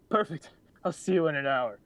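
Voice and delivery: high, overexcited awkward voice; super awkward voice. Acted. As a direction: gush it out nervously. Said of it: "super awkward talking voice".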